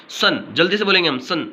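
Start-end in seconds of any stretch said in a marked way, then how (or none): 0.1-0.4 "सन" with a quick short ए sound; short vowel. Shown as a demonstration. Teacher demonstrates the short sound, quick short vowel. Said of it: "ये भी short sound है".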